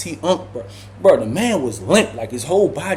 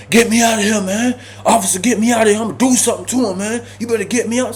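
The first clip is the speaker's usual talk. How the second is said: higher, urgent; pleading shout; 6 semitones higher, faster than usual. Retold or imitated. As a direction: beg to get out. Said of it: "Ty begging the officer".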